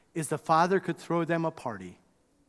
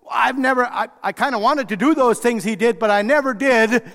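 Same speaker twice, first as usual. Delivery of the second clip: grudging confession; 6 semitones higher, 9 dB louder than usual. Acted. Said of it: "the older brother's voice".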